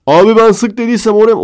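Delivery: high, loud whiny protest; mock whiny victim. Comedian voicing the shot man, high whiny plea.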